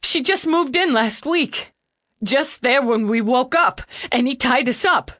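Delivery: put-on panicked young man crying hard; hiccuping tears. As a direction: plead through loud hiccuping sobs. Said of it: "between sobs and shakes".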